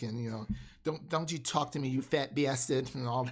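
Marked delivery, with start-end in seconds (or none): 0.8-2.9 lightly put-on New York accent; a touch of Brooklyn in a joking imitation. Shown as a demonstration. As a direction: do a mock Brooklyn tough-talk. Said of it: "you got Brooklyn, New York".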